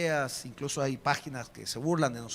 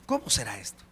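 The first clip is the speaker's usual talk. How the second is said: lower, quiet pondering with a falling end; low musing; 8 semitones lower, 3 dB quieter than usual. Acted. Preacher voicing Mary quietly pondering the angel's words, low. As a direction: turn the question inward, low and falling. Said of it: "La primer sorprendida era María".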